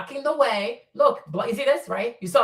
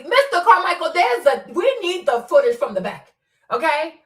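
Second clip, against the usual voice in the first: loud, higher call to a named man; urgent louder plea for the footage; 5 semitones higher, 4 dB louder than usual. Real, not acted. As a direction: raise the voice to get his attention. Calling out to Mister Carmichael.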